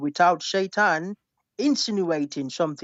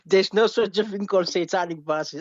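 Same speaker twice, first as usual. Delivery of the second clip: laughing as you deny it; amused dismissal. Real, not acted. Debater laughs off the host's claim of satanic verses, amused dismissal. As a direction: wave it away through a laugh.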